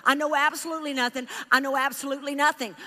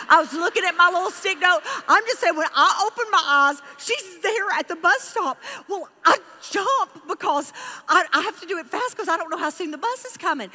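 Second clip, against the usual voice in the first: excited tearful retelling; 4 semitones higher, 3 dB louder than usual. Real, not acted.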